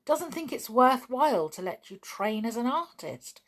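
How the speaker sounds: can't believe what he hears; surprised. A narrator's reading. Julian to Martin about his father, surprised. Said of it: "he said in surprise".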